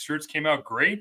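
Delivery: normal talking voice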